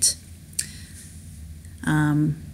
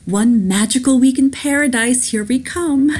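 loud, higher, eager announcement; pitched-up happy whoop; excited cheer; 5 semitones higher, 4 dB louder than usual. Acted. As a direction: celebrate the start of a holiday. Excited passenger's line acted out.

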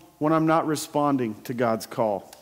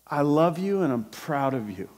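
tender; 5 semitones lower, 4 dB quieter than usual. Retold or imitated. Father tenderly addresses his upset son.

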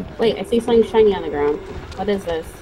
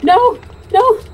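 panicked no; 6 semitones higher, much slower than usual. Real, not acted. Zombie grabbing her character.

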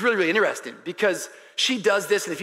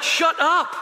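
raised-pitch mock bark; imitated scolding; 10 semitones higher, 5 dB louder than usual. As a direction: play the scary trainer silencing a complainer. Trainer cuts him off.

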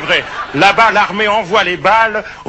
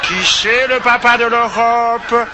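put-on talking to a child; 3 semitones higher than usual. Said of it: "la spécialité de Tonton Vali de parler aux enfants".

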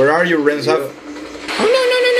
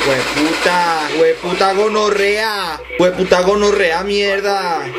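put-on Colombian accent; 2 semitones higher than usual. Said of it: "doing with the voices in Mexican, Colombian?".

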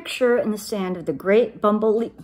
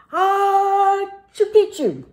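louder, high sneeze-word; half sneeze; 12 semitones higher, 7 dB louder, slower than usual. Acted. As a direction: sneeze the password out. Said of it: "half sneezed, half spoke".

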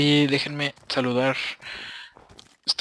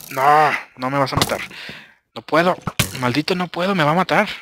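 frantic protest; 3 semitones higher, 4 dB louder than usual. Real, not acted. Archer fighting him.

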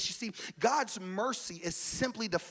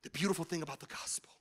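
soft retold words; 3 semitones lower, 8 dB quieter than usual. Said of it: "whenever they then said".

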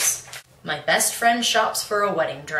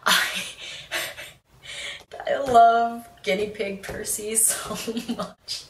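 laughing through the words; slow, giggly gush, breaking up; tickled; 3 semitones higher than usual. Real, not acted. Reader tickled by guinea pig Percy, laughing. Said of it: "I don't know why that tickled me so much".

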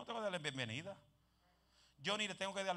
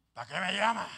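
mock protest; 10 dB louder than usual. The man protesting the call.

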